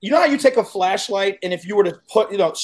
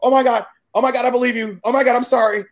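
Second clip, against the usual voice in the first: fast, rushed mock panic; retold terrified apology to the ghost; panicked babbling; 4 semitones higher, faster than usual. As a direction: gabble in fear. Panics after seeing ghost.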